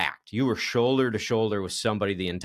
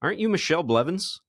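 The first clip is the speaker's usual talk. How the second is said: higher, eager fan asking; excited recognition; 7 semitones higher than usual. Retold or imitated. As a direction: play a stranger thrilled to spot her. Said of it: "looks past me right at you and goes".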